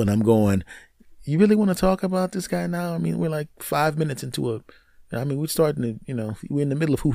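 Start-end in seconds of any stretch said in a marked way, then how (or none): 1.2-7.1 higher, softer voice of disbelief; mock incredulous protest. Man to girlfriend mid-lovemaking, higher incredulous protest. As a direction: plead in a small raised voice.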